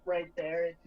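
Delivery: far from the microphone; distant off-mic speech; through a wall. Real, not acted. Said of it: "You sound like you're about thirty feet away".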